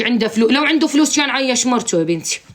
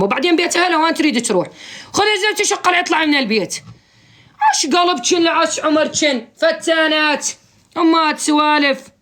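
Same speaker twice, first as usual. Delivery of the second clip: raised scolding rant; 5 semitones higher than usual. Real, not acted. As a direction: tell them off like a fed-up aunt. Scolding women who chase husbands.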